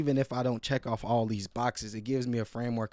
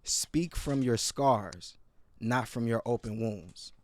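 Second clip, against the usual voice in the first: slow weighty quote; slower than usual. Retold or imitated. Quoting the key takeaway.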